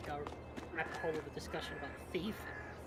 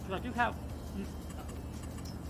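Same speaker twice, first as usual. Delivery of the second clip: talking through a mouthful of food; words round a bite of food; mouth full; 3 semitones higher, slower than usual. Real, not acted. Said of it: "Don't talk with your mouth full".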